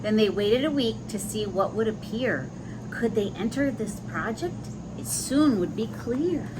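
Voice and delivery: lilting, sing-song rhyming read-aloud; storybook voice with a gentle bounce; reading to children. A narrator's reading. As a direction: read the rhyme to little listeners. Reads rhyming picture book aloud.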